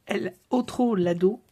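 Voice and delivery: put-on slow, playful Spanish accent. Crafter showing off her "marvellous" Spanish to viewers, Spanish accent. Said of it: "avec mon accent espagnol".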